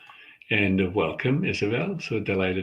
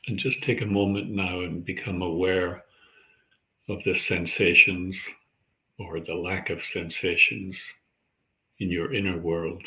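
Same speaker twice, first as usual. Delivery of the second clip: calm, measured meditation guide; unhurried centering practice, leaving space between phrases; guided meditation. Acted. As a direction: guide listeners gently into their breath, with long pauses.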